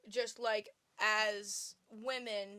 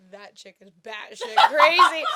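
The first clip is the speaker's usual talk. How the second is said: mock quote; 5 semitones higher, 20 dB louder than usual. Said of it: "is like".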